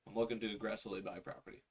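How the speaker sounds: fast confident pitch; quick power words. Shown as a demonstration. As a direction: rattle it off fast, leaning on "aggressively". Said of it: "use the word aggressively".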